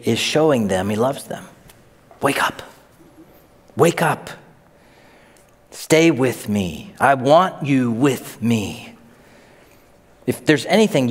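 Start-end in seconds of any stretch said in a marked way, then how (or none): 2.2-8.9 gentle plea. Acted. Jesus gently calling disciples.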